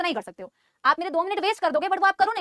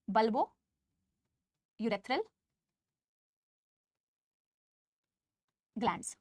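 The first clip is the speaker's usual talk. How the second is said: each syllable drawn out, lower and softer; slow dictation; 6 semitones lower, 7 dB quieter, much slower than usual. Shown as a demonstration. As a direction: dictate it slowly for note-taking. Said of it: "अब इसे लिखे कहाँ भाई?". (धीरे-धीरे लिखवाते हुए)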